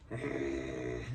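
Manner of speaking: low throaty rumble; guttural growl. Shown as a demonstration. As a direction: make a low, drawn-out throat noise. Imitates the other kind of accent.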